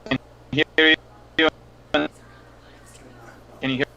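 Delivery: audio dropping out mid-sentence; choppy breaking-up call audio; corrupted glitchy audio. Real, not acted. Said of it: "you're cutting out dramatically".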